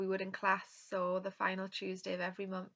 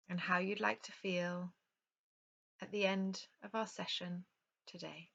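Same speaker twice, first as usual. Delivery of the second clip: calm yoga nidra guidance with unhurried pauses; guided relaxation; 5 dB louder than usual. Real, not acted. Yoga teacher leading an online class into rest, calm guided meditation. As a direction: guide them gently through breath and rest, leaving space between phrases.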